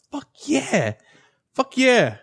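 high-pitched inner cheer; excited. Retold or imitated. Teen rejoices that the girl talks to him, excited. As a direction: celebrate to yourself, thrilled. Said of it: "And you're all excited".

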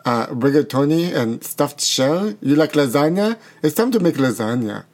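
lightly put-on Italian accent; a singer's accent. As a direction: play at a mock Italian accent, relishing the food names. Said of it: "You don't think that's Italian?".

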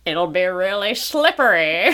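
giggling through the words; laughing. Pretend. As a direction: say it while laughing. Joke reply, laughing.

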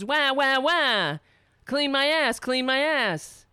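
whiny mock baby crying; mock baby wail. Host likening screaming leaders to a baby, mock wail. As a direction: bawl it like a fake baby demand. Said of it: "like a baby when it poops its diapers".

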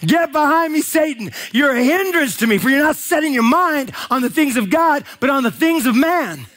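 Jesus rebuking Peter before the disciples; stern rebuke. Retold or imitated. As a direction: scold him in front of everyone.

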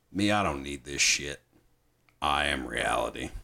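low, quiet imitation of Barnes; Barnes quote. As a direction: mutter it like a weary sergeant. Retelling Barnes's movie speech.

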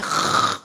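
noisy hawking before a spit; imitated spitting. Boy makes fake tears with spit, imitated spitting. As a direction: hawk it up theatrically. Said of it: "I spat in my hand".

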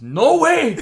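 high, loud laughing no way; laughing mock refusal. Son mimics dad refusing, high laughing yell. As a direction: yell it like a stubborn old man. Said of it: "And he goes".

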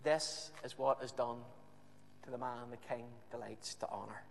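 preacher echoing the proclamation in contrast; quiet echo. Acted. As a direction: let the words fall softly.

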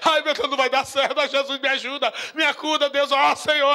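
hammed-up tearful pleading; mock whining cry. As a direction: play a whining believer for laughs. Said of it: "a primeira coisa que tua alma quer é chorar". (imitando um crente chorão, exagerado)

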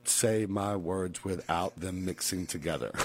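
careful, word-by-word fake British; stiffly enunciated would-be British accent; attempted British accent. Shown as a demonstration. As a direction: separate every word in a mock British accent. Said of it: "like a British man".

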